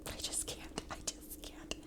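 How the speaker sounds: tearful whisper. Real, not acted. Emotional mom whispering about her son. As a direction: whisper it, overcome. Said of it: "I'm emotional".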